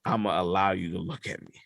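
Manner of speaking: low, hushed godlike command; lightly voiced deity, soft and low; All Father's voice. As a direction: grant permission gravely, with a long pause. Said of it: "And then he's like".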